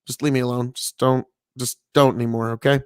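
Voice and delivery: a touch of gentle restraint; gentle route. Retold or imitated. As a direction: imitate a calm, gentle brush-off. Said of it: "he went the gentle route".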